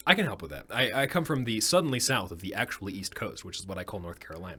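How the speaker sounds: easygoing Southern twang; Southern accent. Shown as a demonstration. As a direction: offer help in a Southern accent. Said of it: "I wanna hear a good Southern accent".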